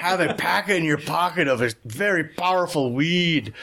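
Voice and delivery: high put-on Spanish accent, amused; Jodorowsky's Spanish accent. Podcaster joking about powerful weed, high Spanish accent. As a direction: play up a Spanish-accented guru, pitched high. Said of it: "we're gonna do the accent".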